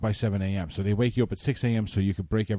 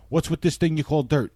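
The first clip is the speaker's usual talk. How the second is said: Brooklyn transplant; 6 semitones higher than usual. Retold or imitated.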